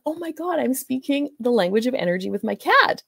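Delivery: light mock delight at the cat; a retold burst of glee; excited. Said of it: "was so excited".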